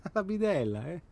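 teasing chuckle over the job title; mocking laugh. Teasing a friend about his wife's job, laughing.

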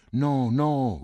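shouted in fear; frightened cry. A narrator's reading. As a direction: cry it out as a terrified boy. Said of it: "gridò Cinto".

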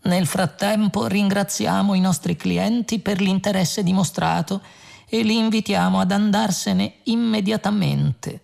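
high, even announcement voice, courteously threatening; growing menace. A narrator's reading. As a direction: thank them as a thinly veiled threat. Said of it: "Il tono di minaccia della voce si fece più accentuato". (annuncio cortese e sempre più minaccioso)

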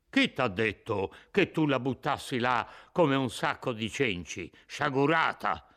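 put-on a gruff, angry rebuke to the old woman; iracondo. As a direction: scold her like a sack of rags. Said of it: "con un cipiglio iracondo". (rimprovero iracondo alla vecchia)

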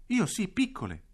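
voce infantile acuta; bambina pronta. Acted. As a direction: risponde fiera. Battistina risponde. (Battistina risponde a Bambilla, voce da bambina)

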